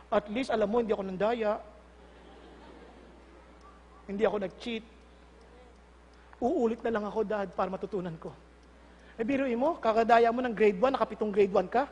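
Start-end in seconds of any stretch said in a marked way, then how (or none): 0.1-8.3 low, soft excuse to dad; meek child. Acted. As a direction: explain quietly to Dad. Child meekly excuses failing to dad. (mahinahong katwiran ng anak)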